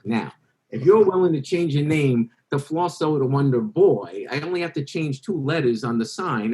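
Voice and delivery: a hint of a showman making a pitch; carnival boss voice. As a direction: magician retelling Max's story in a mildly put-on carnival barker voice. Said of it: "in his accent, tells me the story".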